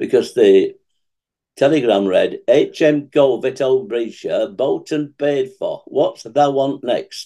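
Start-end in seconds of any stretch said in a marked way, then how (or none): 2.5-7.3 slow, best-effort put-on Yorkshire accent. Reading out the words of a telegram, in a put-on Yorkshire accent. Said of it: "this is where I got to put on my very best Yorkshire accent".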